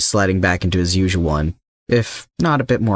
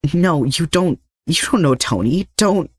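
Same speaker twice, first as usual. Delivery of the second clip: much higher, rising panic; desperate denial; 10 semitones higher than usual. Acted. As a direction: refuse to believe it, voice climbing. Peter denies Slade knows Tony.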